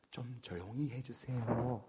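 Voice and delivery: put-on soft, slow, polite Seoul-accent request; a hint of gentle Seoul dialect, said slowly; Seoul speech. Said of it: "서울 말씨".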